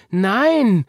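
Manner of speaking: put-on high, loud childlike refusal; determined little girl's protest; emphatic cry. A narrator's reading. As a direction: call it out firmly, drawn out. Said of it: "rief Marie".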